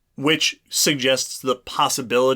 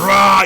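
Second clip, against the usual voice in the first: mock roar; 7 semitones higher, 10 dB louder than usual. Joey's mock scare display.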